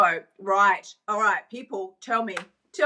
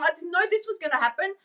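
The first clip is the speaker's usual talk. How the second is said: mock surprised victim; 7 semitones higher, faster than usual.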